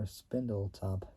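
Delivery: Spindletop said as SPIN-dul-top; short-i pronunciation. Shown as a demonstration. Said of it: "I don't know how you pronounce it".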